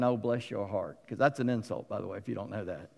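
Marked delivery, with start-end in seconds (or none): 0.0-1.0 Southern. Retold or imitated. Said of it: "that's not a Southern".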